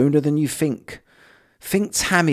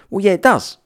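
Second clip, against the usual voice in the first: sharp retort; 9 semitones higher, 4 dB louder than usual. Real, not acted. Retorts to mocked view.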